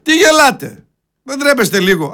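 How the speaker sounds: high-pitched, exasperated question; indignant challenge. Real, not acted. Challenges the audience still laughing. (αγανακτισμένη ερώτηση με ψηλή φωνή)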